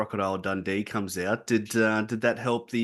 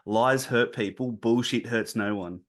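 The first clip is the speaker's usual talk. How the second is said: grandpa's saying. Retold or imitated. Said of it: "my pa would always say".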